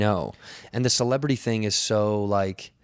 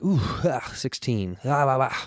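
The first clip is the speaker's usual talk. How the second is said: higher, strained, sputtering panic building; claustrophobic panic; 3 semitones higher, slower than usual. Retold or imitated. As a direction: mutter nervously, then beg the lift to hurry. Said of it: "this really nervous, like, very inverted, tight clenching".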